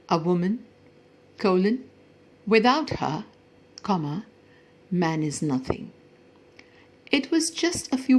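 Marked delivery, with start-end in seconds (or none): 0.1-5.9 A woman, pause, without her, pause, man is nothing; pauses after woman and her. Shown as a demonstration. Girl reads her punctuated sentence, pauses after woman and her. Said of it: "on her face and wrote".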